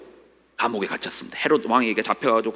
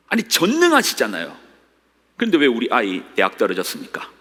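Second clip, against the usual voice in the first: indignant complaint. Acted. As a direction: protest to God, pitch jumping up. Preacher voicing complaint to God. (하나님께 따지듯 억울하게)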